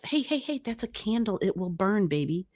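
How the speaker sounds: high-pitched caution to a pet; gentle pet warning. Real, not acted. Warning pet away from candle.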